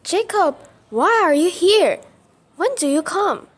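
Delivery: happy shock, the voice jumping up; surprised. Acted. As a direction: caught off guard by a sudden visitor. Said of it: "Asks Bella surprisingly".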